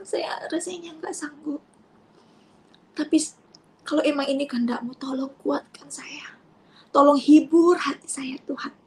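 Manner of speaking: sorrowful plea, slowing as it asks for help; sad pleading prayer. Retold or imitated. Mother begging God for strength and comfort, sorrowful pleading. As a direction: plead with God from a heavy heart. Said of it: "Jujur saya sedih".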